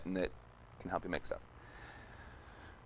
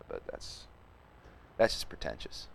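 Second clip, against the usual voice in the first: 1 half-whispered aside; 9 semitones lower, 8 dB quieter than usual. Real, not acted. Half-voiced aside on pretentiousness.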